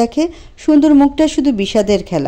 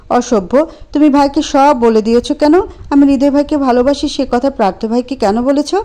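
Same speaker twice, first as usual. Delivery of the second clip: raised, accusing voice; angry; 4 semitones higher than usual. Acted. Priya confronting Anto, accusing. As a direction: demand an answer.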